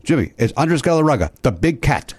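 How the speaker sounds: lightly imitated, bad foreign accent; a touch of clumsy put-on accent; Andres Galarraga. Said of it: "pardon the, the horrible accent".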